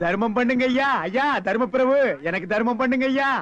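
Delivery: lightly whined plea for alms, drawing out ஐயா; a hint of a pleading street beggar; mock beggar plea. To passers-by outside the temple, a mildly whining beggar's plea.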